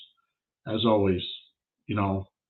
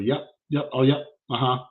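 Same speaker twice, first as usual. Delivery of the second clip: quick, slightly higher brush-off agreement; dismissive yessing; 3 semitones higher than usual. Acted. Tattooist yessing a ranter he doesn't care about, dismissive. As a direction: humour them with empty yeses. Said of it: "you're gonna get yesed".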